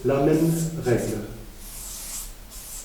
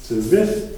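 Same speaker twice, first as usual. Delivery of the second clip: terrific with the weight on RI; stress on RI; 3 dB louder than usual. Shown as a demonstration. Teacher demonstrating the ic suffix to students, stressing RI. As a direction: lean on the RI of terrific. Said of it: "ça nous donne".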